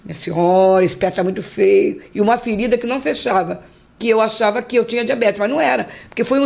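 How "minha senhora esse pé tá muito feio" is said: lower, slow grave doctor warning; doctor's grave tone. Retold or imitated. Doctor telling the patient her foot looks bad, low and slow. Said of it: "ele falava assim".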